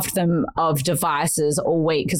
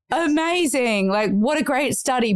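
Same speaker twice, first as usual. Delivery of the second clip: sarcastic; 5 semitones higher than usual. Retold or imitated. Mock praise of husband's study.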